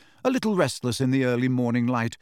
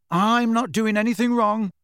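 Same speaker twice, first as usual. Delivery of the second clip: higher, louder call after a cat; 9 semitones higher, 4 dB louder than usual. A narrator's reading. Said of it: "Harry called after her".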